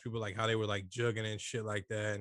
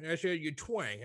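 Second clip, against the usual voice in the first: Southern twang; 2 semitones higher, slower than usual. Acted. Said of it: "the one I'm doing is a slave owner talk".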